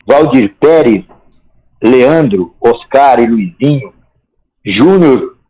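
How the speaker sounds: measured folk-poet recital with pauses between phrases; declaimed verse, each line rising then settling; poem recitation. Acted. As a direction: recite it line by line like a homespun rhymed chronicle. Recites his own football poem.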